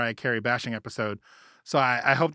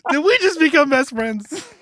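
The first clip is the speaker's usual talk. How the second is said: Step Brothers quote; 12 semitones higher, 7 dB louder than usual. Pretend. Movie quote, high and loud.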